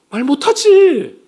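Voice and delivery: 말 못하지 drawn out slow, high and loud; preacher booming the answer to his own question; emphatic slow shout. Acted. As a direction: hammer the answer home, slowly.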